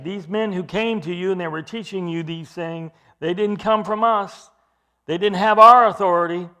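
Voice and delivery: preacher voicing the apostles' rebuke; forceful paraphrase. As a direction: drive home their lack of authority.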